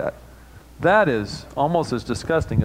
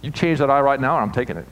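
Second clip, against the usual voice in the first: voice from heaven; 2 semitones higher, faster than usual. Retold or imitated. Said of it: "his voice from heaven goes".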